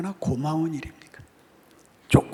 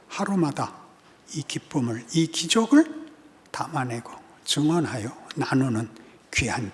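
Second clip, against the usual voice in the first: measured prayer in short, paused phrases; closing prayer; 5 semitones lower than usual. Real, not acted. Pastor praying for the congregation, low measured prayer. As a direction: petition God, mostly low and restrained.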